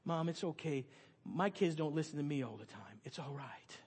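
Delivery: calm a distressed mother; reassuring. Retold or imitated. Comforting a crying mother.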